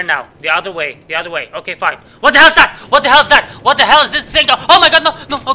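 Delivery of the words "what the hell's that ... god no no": high, loud shocked yelling; jolted by something sudden; startled shriek. Real, not acted. Gamer shrieking at a sudden thing on screen.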